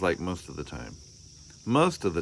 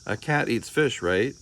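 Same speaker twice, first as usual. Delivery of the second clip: put-on child's voice; 4 semitones higher than usual. Child Arthur voiced in story.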